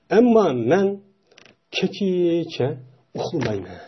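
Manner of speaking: slow, drawn-out declaration; quoted vow, said slowly and deliberately; resolute vow. Retold or imitated. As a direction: stretch the words out in an acted vow. Acting a companion's solemn vow.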